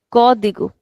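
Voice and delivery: "Código" with a long "Có"; stretched accented syllable. Shown as a demonstration. Teacher modelling the word for students, stretched on CÓ. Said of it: "put stretch on the accent itself".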